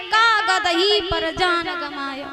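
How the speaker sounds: slow recitation splitting कागज ही as का-गदही; regrouped verse. Retold or imitated. Jilted lover reads the wall, slow regrouped verse. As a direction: stretch the का of कागज, run the rest into ही. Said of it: "और दीवार पर लिखा देखा".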